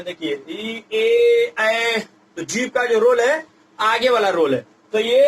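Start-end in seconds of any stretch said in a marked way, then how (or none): 0.5-2.0 ई ए ऐ sounded one by one; front vowels demo. Shown as a demonstration. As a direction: show each front vowel clearly. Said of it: "आगे वाला जीभ का role है".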